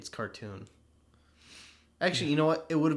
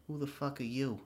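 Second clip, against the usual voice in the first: imitating a stupid line; 4 semitones higher than usual. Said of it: "He says it so stupidly".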